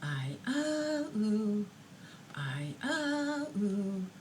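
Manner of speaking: put-on high babbling baby voice; imitating an infant answering in babble; baby jargon. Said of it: "you hear the child go".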